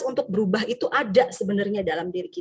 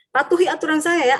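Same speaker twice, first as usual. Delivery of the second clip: higher, louder stern command; punishing teacher; 5 semitones higher, 4 dB louder than usual. Retold or imitated. Teacher ordering a pupil to obey, stern command. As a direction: lay down the rules like a strict punisher. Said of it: "Sebagai penghukum".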